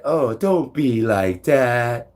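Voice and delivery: slow, drawn-out mocking quote; mimicked teasing. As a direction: drag it out, imitating a teasing voice. Mimicking the voices' teasing reply.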